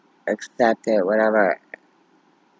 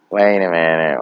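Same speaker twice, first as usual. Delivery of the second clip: "Wait a minute" said firm and clear, full voice; 3 semitones lower, 4 dB louder than usual. Retold or imitated. Repeating wait a minute, fading.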